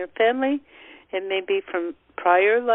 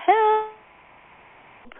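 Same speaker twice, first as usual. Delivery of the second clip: primal scream for help; 12 semitones higher than usual. Shown as a demonstration. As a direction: let out a desperate cry. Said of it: "that's yelling".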